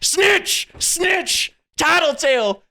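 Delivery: high, loud schoolyard jeer; a fifty-year-old boss jeering like a child; childish taunt. Retold or imitated. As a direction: taunt like a bratty kid chanting snitch. CEO jumps up and down taunting.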